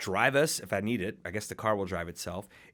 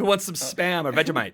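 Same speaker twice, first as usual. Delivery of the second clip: louder mock Aussie voice; Australian accent; 5 semitones higher, 6 dB louder than usual. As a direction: keep the hammy Australian going. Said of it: "Australian accent".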